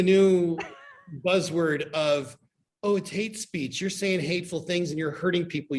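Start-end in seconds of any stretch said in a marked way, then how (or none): 2.8-5.8 high, sanctimonious scolding; mocking preachy voice. Mocking people who cry hate speech, high and preachy. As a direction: parody a scold lecturing about harm.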